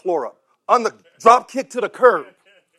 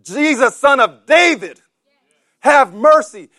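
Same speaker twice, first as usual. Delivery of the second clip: crying out; 4 semitones higher, 5 dB louder, slower than usual. Acted. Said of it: "he referred to him".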